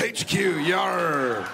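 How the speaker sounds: hearty pirate growl. Retold or imitated. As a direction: play it like a sea pirate. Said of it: "make me sound like a pirate".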